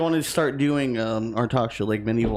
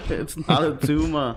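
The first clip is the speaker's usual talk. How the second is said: lightly put-on quote voice; movie catchphrase impression. Co-host answering with film quote, light impression. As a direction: give the famous line a playful twist.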